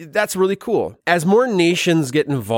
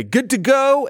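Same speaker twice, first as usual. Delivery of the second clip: high, clipped machine voice; robot camera voice; 11 semitones higher than usual. Acted. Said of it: "will say".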